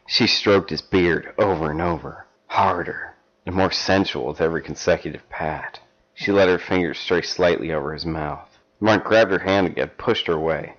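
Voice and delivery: measured storybook reading; story narration. Acted. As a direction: read it like a steamy paperback. Reads erotic fan fiction aloud.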